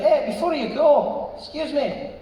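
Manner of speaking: high, slow, coy questioning; a polite waiter leaning in with a sly question; waiter's voice. Retold or imitated. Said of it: "He's like".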